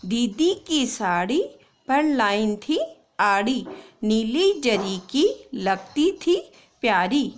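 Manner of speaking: put-on slow, clear poem reading for kids; slow read-aloud. Shown as a demonstration. Teacher reading a poem slowly to pupils. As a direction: read the rhyme slowly, word by word. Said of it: "एक बार वापस से मैं आपको reading करके बता देती हूँ".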